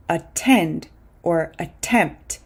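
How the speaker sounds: "attend or attempt" with full T in the stressed syllables; true T. Shown as a demonstration. Teacher gives learners "attend or attempt" with true T sounds. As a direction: keep a crisp T in "attend" and "attempt". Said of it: "It's the same with".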